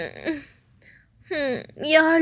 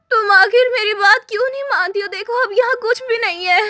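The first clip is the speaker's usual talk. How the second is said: tearful scolding; 4 semitones higher than usual. Acted. Scolding a too-thin friend tearfully.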